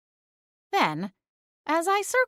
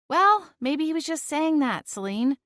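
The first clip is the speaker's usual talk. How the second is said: calling up; 8 semitones higher than usual. A narrator's reading. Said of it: "I called up the stairs".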